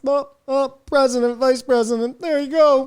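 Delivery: mock fawning. Mocking media fawning over Harris.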